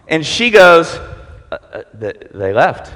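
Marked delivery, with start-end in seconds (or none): 1.5-2.9 timid woman. Acted.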